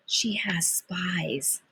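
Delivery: breathy secret whisper; conspiratorial whisper to Joey. A narrator's reading. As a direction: hush it like a secret. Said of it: "I whispered".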